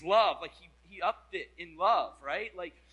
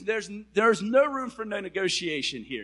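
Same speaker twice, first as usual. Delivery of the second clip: firm command from God; 3 semitones higher, 8 dB louder than usual. Retold or imitated. God insisting firmly.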